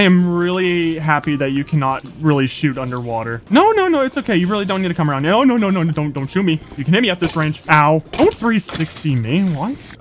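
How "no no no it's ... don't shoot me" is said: panicked pleading. Real, not acted. Mobs closing in on him.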